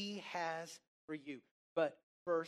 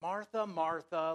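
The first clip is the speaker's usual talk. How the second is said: louder, firm calling of the name; settle-down reproof; 5 dB louder than usual. Shown as a demonstration. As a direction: say the repeated name to check someone. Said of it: "Martha, settle down".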